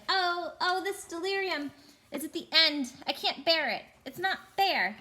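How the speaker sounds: high, self-pitying wail. Acted. Uncle Andrew wailing in the darkness, high and whiny. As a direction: whine it like a frightened old man. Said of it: "it was wailing".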